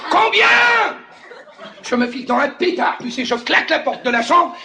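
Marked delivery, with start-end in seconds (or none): 0.1-0.5 high, loud explosion of disbelief; mock-furious high-pitched shout; outraged yell. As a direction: shriek the question like a jealous husband. Jealous husband asks again, exploding.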